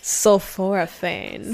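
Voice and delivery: slow and sultry; sexy voice. Pretend. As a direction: draw out Sulforaphane slowly, teasing. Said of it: "you just have to say it in a sexy voice".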